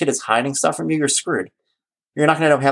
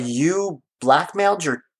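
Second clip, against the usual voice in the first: shocked daughter; 6 semitones higher, slower than usual. Retold or imitated. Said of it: "And she's like".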